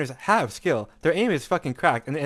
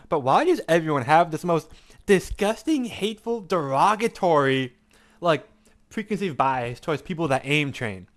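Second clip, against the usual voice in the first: chewing while talking; 3 semitones higher than usual. Real, not acted. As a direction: mouth full while ranting. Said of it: "I'm eating".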